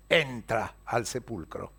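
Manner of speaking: entra al sepulcro drawn out slow and low; slow emphasis. A narrator's reading. Pedro impulsively enters tomb.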